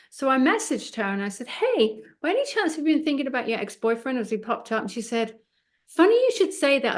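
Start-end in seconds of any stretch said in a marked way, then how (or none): 1.5-4.2 high, fast, chirpy "Hey" and then a rushed question; bright quick query. Retold or imitated. Her message to the client. 5.9-7.0 higher and louder, amazed; surprised reply. Retold or imitated. Client's reply retold.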